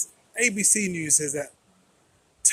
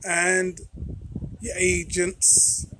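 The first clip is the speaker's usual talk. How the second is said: fiery revolutionary speech; slower than usual. Acted. Channel opening rally call.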